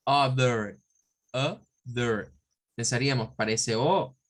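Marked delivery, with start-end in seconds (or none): 0.1-2.3 other with schwa, UH-thuh; English other. Shown as a demonstration. Teacher modelling other for the class. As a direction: model other with weak vowels. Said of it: "Con el schwa".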